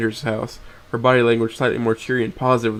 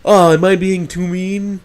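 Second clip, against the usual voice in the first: mocking tone; 7 semitones higher, 6 dB louder than usual. Nazar mocks his guilty friend, loud and sneering. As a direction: throw his words back at him. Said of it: "echoing the last word in a mocking tone".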